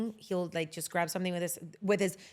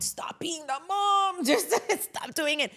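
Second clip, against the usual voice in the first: scolding herself; 9 semitones higher, slower than usual. Retold or imitated. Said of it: "And then I'm like".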